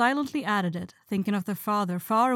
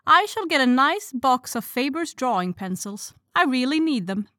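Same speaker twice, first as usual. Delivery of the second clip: decided; 5 semitones higher, 6 dB louder than usual. A narrator's reading. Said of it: "said Amy decidedly".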